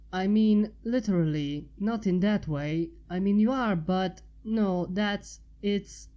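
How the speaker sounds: flustered, tripping over the words; mild embarrassed stammer. Acted. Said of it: "she stammered".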